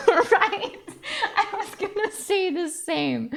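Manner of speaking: talking through laughter; laughing. Acted. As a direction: let the giggles break the words. Dog and girl laugh together.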